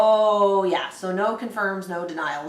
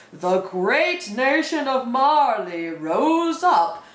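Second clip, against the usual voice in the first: narrator voice; 4 semitones higher, slower than usual. Acted. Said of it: "I'm in this narrator voice".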